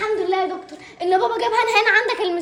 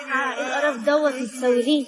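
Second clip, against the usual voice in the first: disgusted outburst; 8 semitones lower than usual. Acted. Girl disgusted at being beggars.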